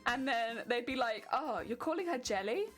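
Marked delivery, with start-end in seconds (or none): 1.3-2.6 indignant questioning, pitch jumping higher; mock outrage. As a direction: act scandalized on someone's behalf. Acts out outraged objection to nickname.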